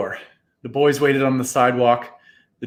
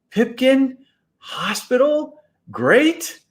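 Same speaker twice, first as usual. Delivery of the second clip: high, rising questions; stunned disbelief; 10 semitones higher, slower than usual. Acted. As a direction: ask each word in amazement. Boys stunned by news.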